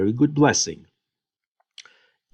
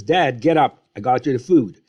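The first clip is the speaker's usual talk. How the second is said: impolite; 3 semitones higher, 4 dB louder than usual. Retold or imitated. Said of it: "he is not as polite as Jacob".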